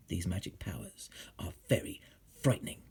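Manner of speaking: soft, whispered warning; spooky whisper. A narrator's reading. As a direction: frighten the listener.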